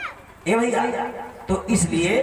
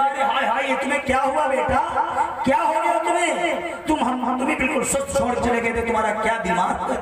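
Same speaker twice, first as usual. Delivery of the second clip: a higher, dismayed "अरे हाय हाय" rising in alarm; shocked guru; 4 semitones higher than usual. Acted. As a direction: cry out in horror at your battered disciple. Guru shocked at beaten disciple.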